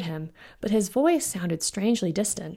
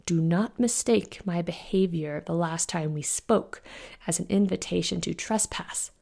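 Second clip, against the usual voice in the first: low, rough voice. Acted. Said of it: "His voice was very low and had a rough, gravelly quality".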